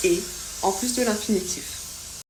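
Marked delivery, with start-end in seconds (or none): 0.1-0.2 "et" said as a closed é; "et" as a clean é vowel, final Z silent. Shown as a demonstration. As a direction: say "et" with no Z sound, just é. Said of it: "qu'on prononce".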